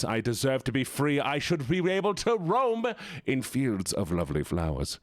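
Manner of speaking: small pocket creature pleading for freedom; tiny creature voice. Pretend. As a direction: beg like a tiny trapped critter. Pocket Gene again.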